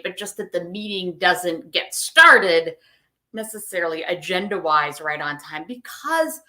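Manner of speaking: talking through hiccups; hiccuping mid-sentence. Real, not acted.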